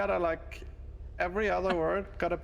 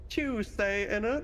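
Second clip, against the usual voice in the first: mock British accent; 6 semitones higher, slower than usual. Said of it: "It's aggressively British".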